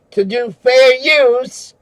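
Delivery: slow, mocking high voice; mocking the trolls. Ranting streamer mocks trolls, slow sneering voice. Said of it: "as the trolls call it".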